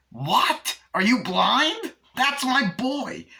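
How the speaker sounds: high, loud indignant Chucky; Chucky's voice. Retold or imitated. Chucky arguing with Tiffany, high and loud. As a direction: snap back, indignant. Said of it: "Chucky's like".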